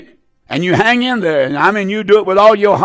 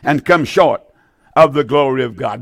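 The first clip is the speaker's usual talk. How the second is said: slow emphatic reading. Shown as a demonstration. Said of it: "Listen to me now".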